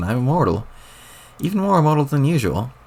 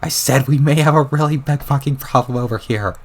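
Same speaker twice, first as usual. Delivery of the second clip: shouting it louder through muffling foam; a frustrated raised repeat. Acted. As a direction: push the voice out so he hears. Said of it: "Louder, man".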